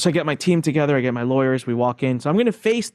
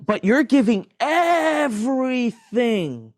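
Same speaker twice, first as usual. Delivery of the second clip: incredulous; 10 semitones higher, much slower than usual. Real, not acted. Incredulous at handing over everything.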